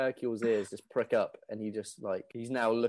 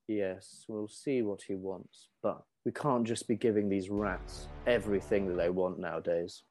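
overheard general; 2 semitones lower than usual. Acted. GM voices general Hercule, overheard.

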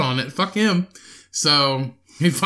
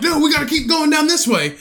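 mocking Cody; 11 semitones higher than usual. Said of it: "And you're like".

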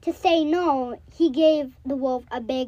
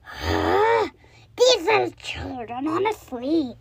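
wolf voice. Acted. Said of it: "said the wolf".

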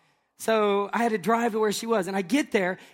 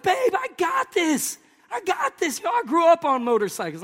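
fake confidence; 8 semitones higher than usual. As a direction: act cool to the wife while nervous. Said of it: "I was like".

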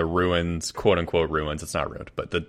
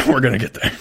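slightly raised character voice, much less extreme; character voice attempt; 4 semitones higher, 4 dB louder, faster than usual. Player still tuning his character's voice, moderately high. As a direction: dial the put-on voice in after laughing. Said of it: "Dial it, dial it".

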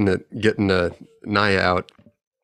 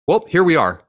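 smug reveal; 7 semitones higher, 5 dB louder than usual. Retold or imitated. Confronting the reckless driver.

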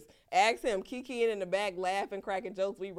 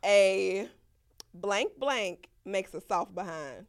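slow, lightly voiced mama saying; a hint of a mother's warning, drawn out; Black mama voice; 6 dB louder, much slower than usual. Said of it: "in my best black mama voice".

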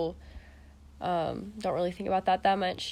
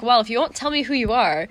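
retold loud quote; 4 semitones higher, 7 dB louder than usual. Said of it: "I was like".

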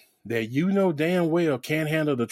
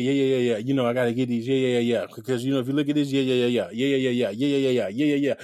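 lower, monotonous run of yeahs; mocking a host's filler; 4 semitones lower than usual. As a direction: imitate someone padding every sentence with filler. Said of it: "everything the girl said".

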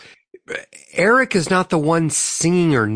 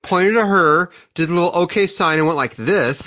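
laughing; 3 semitones higher than usual. Real, not acted. Laughing while describing.

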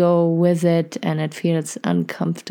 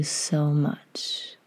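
whispering; 2 semitones lower, 8 dB quieter than usual. Real, not acted. Sympathising with listeners after winter.

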